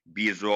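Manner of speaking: बिजौरीन with रा held and pressed. Shown as a demonstration. Teacher shows students how to hold रा in बिजौरीन. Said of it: "रा को थोड़ी देर रोक के प्रेस करके".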